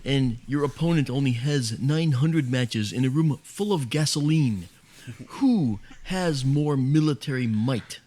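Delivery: slow, measured lecturing voice; lightly voiced Carl Sagan musing; Sagan impression. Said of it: "That was a famous analogy he made".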